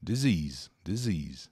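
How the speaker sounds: Disease with a buzzing Z in the middle; teacher modelling the Z sound in disease. Shown as a demonstration. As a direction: say disease as di-ZEEZ. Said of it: "um S entre duas vogais com som de Z".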